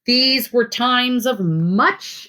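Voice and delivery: steady, expressive picture-book read-aloud; reading to children. Acted. Teacher reading a river story to her class, storytelling voice.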